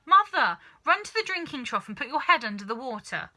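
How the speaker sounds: high, loud urging; frantic plea. Acted. Wife urging her mother to the trough, frantic. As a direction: beg her to hurry.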